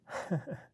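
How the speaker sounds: short burst of laughter. Real, not acted. Laugh after announcing the poem's title.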